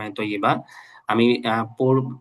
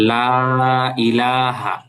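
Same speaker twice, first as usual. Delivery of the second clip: slow, clear recitation; careful recitation; 5 dB louder, much slower than usual. Shown as a demonstration. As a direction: say it carefully for students. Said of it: "আমি একটু ভালো করে পড়তেছি". (স্পষ্ট করে ধীরে পড়া)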